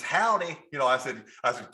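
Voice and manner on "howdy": imitated greeting. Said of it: "And she says".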